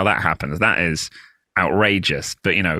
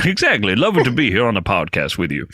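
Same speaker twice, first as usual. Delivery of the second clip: Arkansas accent; 2 semitones lower than usual. Shown as a demonstration. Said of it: "So that's how he sounded".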